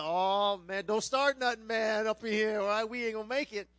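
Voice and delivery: loud, pleading protest to a buddy; hammed-up loud objection; acted loud protest. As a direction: plead loudly, as retold banter. Acted reaction to the Oklahoma challenge.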